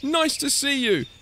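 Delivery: high, welcoming call; happy high-voiced herd; hooting. A narrator's reading. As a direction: hoot a friendly greeting. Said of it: "they hooted".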